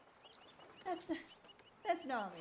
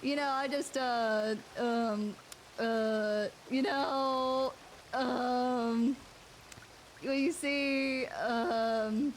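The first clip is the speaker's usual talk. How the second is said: drawn-out louder fillers; mock stalling; 4 semitones lower, 4 dB louder, much slower than usual. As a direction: stall comically. Stalling filler, loud slow.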